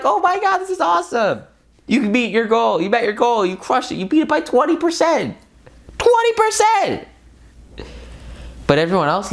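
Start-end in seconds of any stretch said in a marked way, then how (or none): 0.0-1.4 very high, gushing "oh my God"; thrilled exclamation. Retold or imitated. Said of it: "And you're so excited". 1.9-7.1 much higher, triumphant and giddy; soaring celebratory shout-out; excited cheering. Pretend. Celebrating beating the goal.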